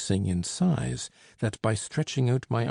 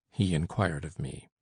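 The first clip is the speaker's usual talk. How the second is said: ordinary delivery, nothing marked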